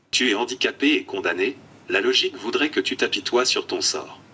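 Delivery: computer text-to-speech voice; flat synthetic speech from an eye-tracking tablet. Real, not acted. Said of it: "une voix de synthèse". (voix de synthèse robotique)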